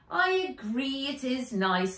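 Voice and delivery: put-on high, bright girl; breezy teen girl.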